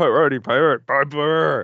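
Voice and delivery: loud, high-pitched yell. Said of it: "the person who yells out Piper's name".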